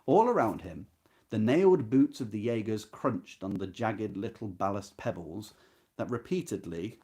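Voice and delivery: measured, expressive reading of a novel passage; literary reading. Acted. Teacher reading a novel passage to students, expressive and measured. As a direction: read the prose aloud to the class with weight.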